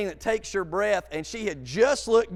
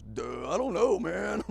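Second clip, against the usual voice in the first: dopey reply; 4 dB quieter than usual. Retold or imitated. Retold clueless reply, lower pitch.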